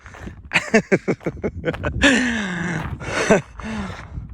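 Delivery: drawn-out amused laugh; long chuckle. Real, not acted. Laughs at own joke.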